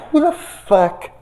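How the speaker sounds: high disbelieving laugh; outraged laugh. Real, not acted. Watching the bullying scene, laughing outrage.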